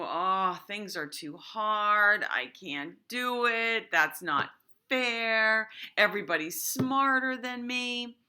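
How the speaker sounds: a mild mopey whine, slow; lightly voiced Eeyore complaining things are too hard; whiny Eeyore. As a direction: act out a gloomy Eeyore giving up. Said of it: "versus Eeyore, who".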